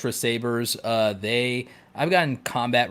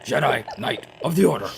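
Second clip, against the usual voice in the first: mock solemn knighting; 12 semitones higher, 8 dB louder, faster than usual. Dubbing her a Jedi knight.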